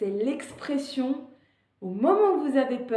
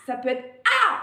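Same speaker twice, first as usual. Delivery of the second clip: louder demo cry; 6 dB louder than usual. Shown as a demonstration. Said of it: "le cri que vous voulez".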